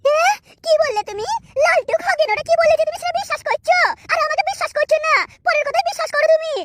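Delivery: mildly stung and accusing; indignant reproach. Acted. Wife accusing husband of believing others, mildly indignant. Acted quarrel over husband's distrust.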